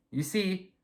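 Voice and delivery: you see whispered. Retold or imitated. Telling Grandpa the story, a sly whisper. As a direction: drop to a whisper for effect.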